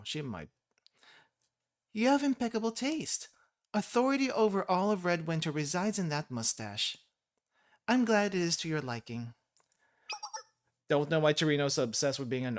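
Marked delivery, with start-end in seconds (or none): 1.9-9.3 a lightly voiced small dictator, higher and proud; Chirino voice. Streamer voicing Chirino thanking Sensei for the compliment, lightly pompous. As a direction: play the tiny leader pleased with flattery. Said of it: "I'll try it with Chirino".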